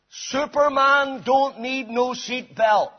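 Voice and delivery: lightly voiced champion, slow and gravelly; slow gravelly boast. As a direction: drawl the boast with a saucy grin. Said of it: "he said in a slow, gravelly voice".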